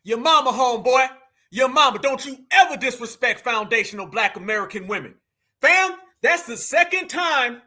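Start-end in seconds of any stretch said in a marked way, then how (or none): 0.0-2.0 mocking taunt. Taunting the guest loudly.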